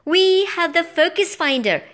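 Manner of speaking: high, loud excited squeak. A narrator's reading. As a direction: pipe up high with sudden hope. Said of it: "I squeaked".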